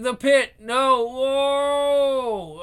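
loud high alarmed cries; alarmed shout. Acted. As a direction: cry out in shock. Falling into pit.

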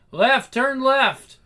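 high, loud, stretched-out directions; urgent shout. Acted. Runaway to partner while escaping, shouting urgently. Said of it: "more screaming".

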